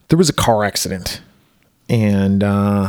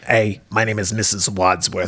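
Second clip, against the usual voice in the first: lightly mocked movie mom, lower voice; a touch of husky smoker, lower; Mrs. Wadsworth impression; 3 semitones lower, 4 dB quieter than usual. Podcaster introduces himself as the movie mom, mock smoker voice. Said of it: "she talks like this".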